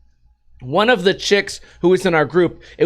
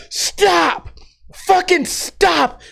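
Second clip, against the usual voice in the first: high slow desperate yell; retold yell; 11 semitones higher, much slower than usual. Banging on window to stop driver, desperate high yell. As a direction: scream it at the driver. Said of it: "smashed the window".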